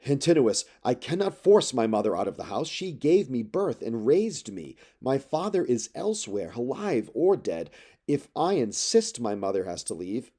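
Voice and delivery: insisting, short of breath; heated, breathing hard. Acted. Telemachus refuses the suitors, heated and breathless. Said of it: "breathing hard".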